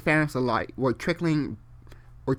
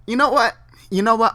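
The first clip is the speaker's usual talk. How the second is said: frustrated exclaim; 8 semitones higher, 7 dB louder, faster than usual. Real, not acted. Rising frustration.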